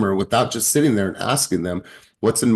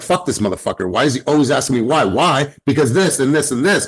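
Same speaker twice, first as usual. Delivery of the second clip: annoyed client; 5 semitones higher, 4 dB louder than usual. Retold or imitated. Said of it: "she'd be like".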